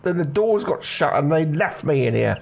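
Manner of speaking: put-on a jittery teen hiding in a warehouse; nervous teenage lad. Jimmy explains himself.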